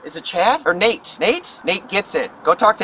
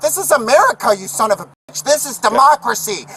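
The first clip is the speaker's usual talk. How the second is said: angry at cop; 4 semitones higher than usual. Real, not acted. Yelling at the cop.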